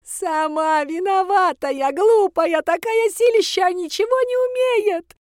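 high, loud shriek of a spiteful granny; shrieking old woman. A narrator's reading. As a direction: screech it out, furious and greedy. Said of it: "завизжала она". (визгливый злобный крик старухи)

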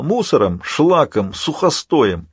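high, slow villain's jeer; contemptuous villain goading the hero; taunting villain Alpha. Acted.

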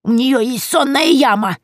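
lightly voiced old witch, high and slow; a cackling granny confiding a secret; grandmotherly witch voice; old crone voice. A narrator's reading.

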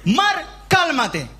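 slow firm command. Acted. Jesus commands the sea.

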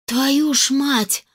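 slow, high, drawn-out curse; breathed out curse. A narrator's reading. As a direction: gasp it out after falling in the water. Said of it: "выдохнула я".

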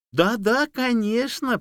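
high, eager fawning yes; fawning agreement. A narrator's reading. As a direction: grovel to the bear. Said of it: "подобострастно закивала лиса".

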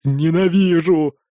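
slow, drawn-out hiss of hatred; hissed through teeth. A narrator's reading. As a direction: grind it through your teeth. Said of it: "процедила та сквозь зубы". (процедила сквозь зубы)

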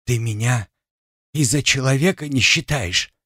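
hoarse trembling voice. Acted. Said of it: "сказала хриплым, дрогнувшим голосом".

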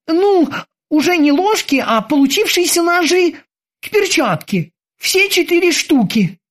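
high, eager sailor's voice; squeaky dutiful boatswain. Acted. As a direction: report to the captain like a keen young sailor. Boatswain Kiki tells.

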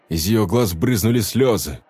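ordinary delivery

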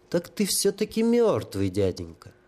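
a hint of high childlike awe; lightly voiced holy fool. Holy fool to the sapper, lightly awed and childlike.

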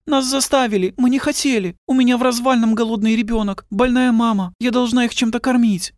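high, desperate woman's voice; pleading young woman. A narrator's reading. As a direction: beg for understanding. (высоким умоляющим женским голосом)

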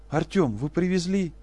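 high, urgent plea; eager desperate question; desperate hope. Acted. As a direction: grasp at a last hope.

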